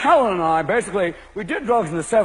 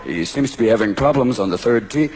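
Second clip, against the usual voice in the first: much lower hushed commentator voice; golf commentator; 10 semitones lower than usual. Acted. Commentator describing the golfer, low and hushed. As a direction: murmur it like a TV golf announcer.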